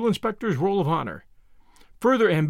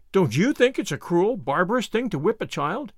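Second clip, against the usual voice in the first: earnest exclamation; 4 semitones higher than usual. Acted. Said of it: "exclaimed Anne".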